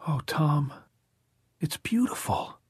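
high, breathy gush of rapture; overdone rapture, airy and high; too rapturous. A narrator's reading. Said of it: "said in a too rapturous voice".

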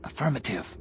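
faint near-whisper; barely a whisper. A narrator's reading. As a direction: answer very quietly, almost whispering. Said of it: "Anakin's voice was barely a whisper".

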